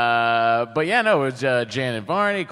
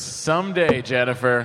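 shouted movie quote; 3 semitones lower than usual. Acted. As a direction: call it out across the room. Back to the Future quote yelled.

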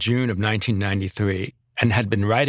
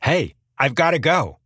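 casual brush-off, a bit higher and brighter; offhand excuse; 5 semitones higher than usual. Retold or imitated. Mandela quoted giving a half-hearted exit line, casual. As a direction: toss it off like a politician leaving. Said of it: "He gives a kind of half-hearted answer".

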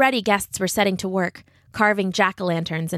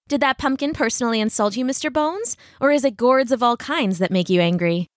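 playful, raised female character voice; teasing young lady; 4 semitones higher than usual. Acted. Katrina ribs Brahm as he hacks his pumpkin, playful teasing. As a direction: tease him lightly about his temper.

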